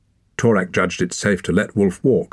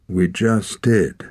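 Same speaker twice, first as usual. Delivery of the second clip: snarling; 2 semitones higher, much slower than usual. A narrator's reading. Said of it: "snarled Torak".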